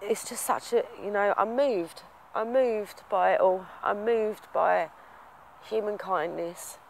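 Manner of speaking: real, voice slightly lifted and strained, slowing down; trying to say it while choked up; emotional, moved. Real, not acted. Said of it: "I can get emotional about stuff like this".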